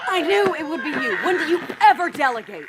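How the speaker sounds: laughing through the words; fond teasing laugh; amused. Acted. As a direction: chuckle at an old friend's habits. Captor gloating over caught friend.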